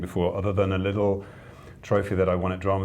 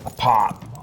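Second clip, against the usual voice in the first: a light put-on American accent on "pop". Shown as a demonstration. Joking with the host about the toy, in an American accent. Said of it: "There's my American accent".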